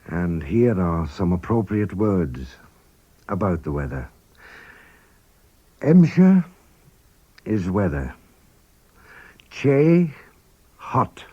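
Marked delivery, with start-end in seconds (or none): 5.8-6.4 Emsher spoken high and loud with a rise, as a model; Manx word modelled. Shown as a demonstration. Teacher to learners, modelling Emsher slowly and clearly. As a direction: set out Emsher clearly for the class. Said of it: "teacher models vocabulary".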